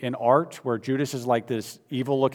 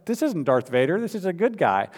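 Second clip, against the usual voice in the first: arguing back; 3 semitones higher than usual. Retold or imitated. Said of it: "began to argue with him".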